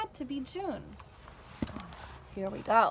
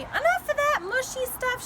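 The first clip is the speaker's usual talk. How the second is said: higher, louder gruff cover; gruff sniffle; 10 semitones higher, 5 dB louder than usual. A narrator's reading. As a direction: bluster to hide the tears. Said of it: "she said with a sniffle".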